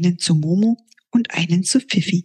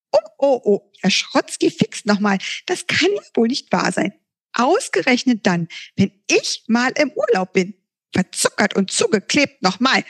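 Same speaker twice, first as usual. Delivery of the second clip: higher, fussy grumbling sprite; scolding voice; 5 semitones higher than usual. Acted. The unknown voice scolds Herr Schrotzki, higher fussy grumbling. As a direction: grumble like a cross little sprite. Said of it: "zu schimpfen beginnt".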